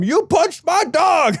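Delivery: high, slow mock yell of an angry homeowner. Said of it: "started yelling".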